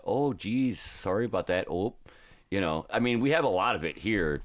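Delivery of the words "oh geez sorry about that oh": higher "Oh, geez" in a Wisconsin accent; exaggerated Wisconsin lilt. Shown as a demonstration. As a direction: demonstrate the Wisconsin apology, "sorry" as "sah-ry". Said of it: "It's more like a".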